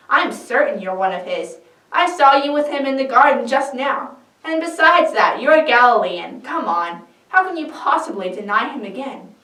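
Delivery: corner him with proof; pressing accusation. Acted. Another man presses Peter, loud and insistent.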